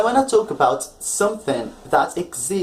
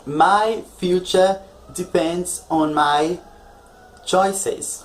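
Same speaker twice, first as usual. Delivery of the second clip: example sentence, slow; slower than usual. Shown as a demonstration. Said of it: "example sentences".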